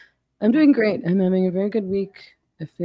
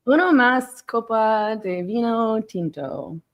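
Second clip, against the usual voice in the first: mock Spanglish; 4 semitones higher, slower than usual. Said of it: "I keep wanting to do my, my Spanglish".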